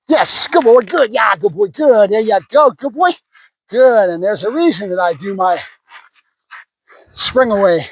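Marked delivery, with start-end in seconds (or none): 0.1-4.1 high, bright-up praise; happy praise. Real, not acted. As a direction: reward the dog with a lift in the voice. Praising the dog on release.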